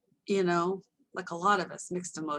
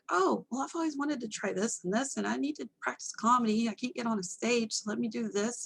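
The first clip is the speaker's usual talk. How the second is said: retold self; 4 semitones higher than usual. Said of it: "I was like".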